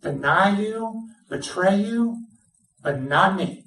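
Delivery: lightly voiced Peter, pitch lifted as he promises; Peter's boast. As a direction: swear it like a proud friend. Preacher voices Peter's loyal boast.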